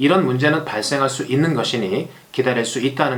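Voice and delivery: ordinary talk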